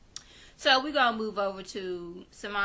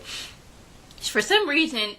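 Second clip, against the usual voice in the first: dramatic aside; 7 semitones higher, 5 dB louder, much slower than usual. Acted.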